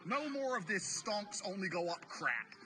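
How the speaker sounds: lightly voiced scheming Fed; voicing the Fed. The Fed announcing a crash to retail, lightly acted. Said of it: "the Fed is like".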